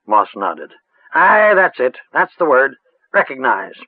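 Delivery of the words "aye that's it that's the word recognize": lightly voiced rustic old witch; a hint of a cackly village crone, musing. A narrator's reading.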